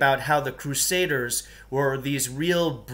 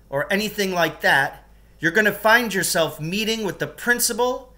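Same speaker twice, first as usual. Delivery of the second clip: defiant threat; 5 semitones higher, 4 dB louder than usual. Acted. Pupil threatens gym teacher.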